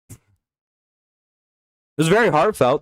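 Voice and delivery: slow, dragged-out sarcasm; very slow mock sincerity; sarcastic. Real, not acted. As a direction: drawl it out mockingly. Mocking ESPN's early-morning apology.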